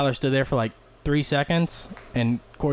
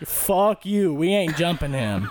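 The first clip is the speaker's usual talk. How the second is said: imitating the friends; 4 semitones higher, slower than usual. Friends refusing, scared.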